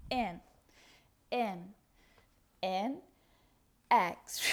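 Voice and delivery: short breathy whispered count; whispered cue. Shown as a demonstration. Teacher counting the exhale, whispered. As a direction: breathe the word out.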